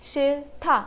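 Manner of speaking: शिथा split as शिल, then था; pronunciation demo. Shown as a demonstration. Teacher shows the first example, sounding out शिथा by syllable. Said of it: "it will be pronounced as only".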